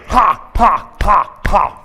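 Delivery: loud forceful has on the out-breath; shouted ha breaths. Shown as a demonstration. Coach demonstrating the shoulder-tap breath to women, loud. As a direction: push each ha out hard. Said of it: "you're gonna say".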